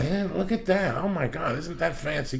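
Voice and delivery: airy mock awe at the fancy things; mocking gawking tourists. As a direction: ape a starry-eyed sightseer. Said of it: "And they".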